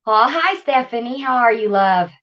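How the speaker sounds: breathless after the stairs; winded, catching breath between words. Real, not acted. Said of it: "Little out of breath, ran up and down the stairs".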